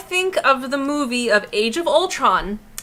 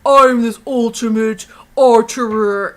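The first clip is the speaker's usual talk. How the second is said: mock egotistical archer; 2 semitones lower, 6 dB louder than usual. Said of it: "Just the ego of him saying".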